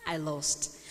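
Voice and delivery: slow, measured Bible reading; solemn scripture read in separate phrases. Acted. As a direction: read the parable aloud with deliberate pauses. Reads scripture aloud.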